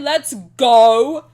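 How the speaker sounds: loud happy cheer; excited cheer. Real, not acted. Cheering new crush.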